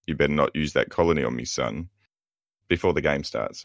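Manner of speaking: low, fast dad warning; mock dad threat. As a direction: growl it like a grumpy dad. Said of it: "so, like".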